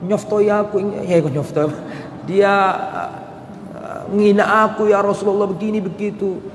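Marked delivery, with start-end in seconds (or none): 0.0-0.8 imitated whining plea on a level tone; hammed-up weepy tattling; mock tearful complaint. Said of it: "Nangis Sofia". 2.2-6.4 acted sobby grievance; mock tearful complaint.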